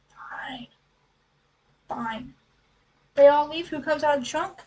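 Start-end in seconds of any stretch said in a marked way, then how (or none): 0.1-2.3 grudging fine. Retold or imitated. Rose grudgingly agrees, whispered.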